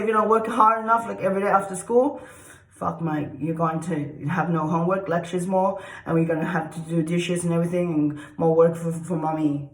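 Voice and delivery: mock Asian parent. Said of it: "they say".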